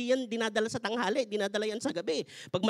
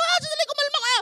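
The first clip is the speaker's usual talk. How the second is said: calming quote; 4 dB louder, faster than usual. Retold or imitated. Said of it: "Sabi ko".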